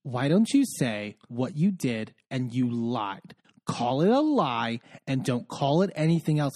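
low, measured imitation of a menacing man. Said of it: "really menacing when he does this".

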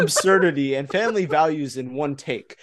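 giggling through the words; can't stop laughing; laughing while reading. Real, not acted. Reading absurd review, cracking up.

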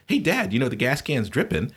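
lightly voiced brother alerting his father; retold kid brother.

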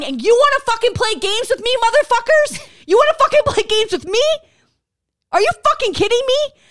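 real heated confrontation; angry challenge. Real, not acted. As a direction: dare them, voice climbing. Shouting challenge at party rivals.

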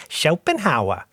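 imitated Monty Python American accent; generic American accent. Podcaster quoting Eric Idle's restaurant scene, mock American accent. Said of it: "Monty Python's American accents".

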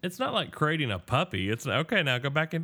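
coaxing a pet, high and bright; talking to a dog. Pretend. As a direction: sweet-talk a big dog, rising. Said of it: "I don't actually talk like that to an animal".

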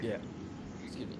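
hiccuping between words; with hiccups. Real, not acted. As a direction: speak through a hiccup. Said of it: "I got the hiccups".

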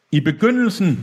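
high, chant-like proclamation; solemn intoning. A narrator's reading. Deacon preaching to his men, high solemn intoning. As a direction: intone it like scripture. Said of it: "messede Deacon med ansigtet lagt i folder".

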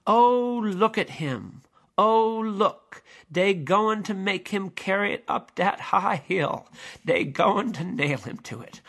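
crying voice. Acted. A distant voice mourns the man carrying the cross, crying out. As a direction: cry out in anguish over the cross. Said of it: "a voice cries".

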